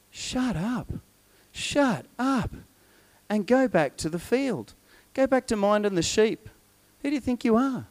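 acted, mildly exasperated put-down; brothers' scolding. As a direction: scold a pesky little brother in separated phrases. Brothers scolding young David.

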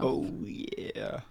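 soft close-mic whisper; leaning into the mic. Shown as a demonstration. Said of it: "talk a little quieter".

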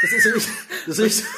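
squeaky choking laugh; laughing while still half-choking. Real, not acted. Choking laugh after lozenge.

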